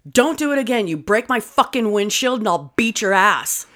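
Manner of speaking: mock tirade, pitched a little up; full-bore angry retelling. Retelling daughter's threat to the tennis boy, full-bore mock anger. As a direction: reenact a furious threat, only mildly heated. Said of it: "she went full bore".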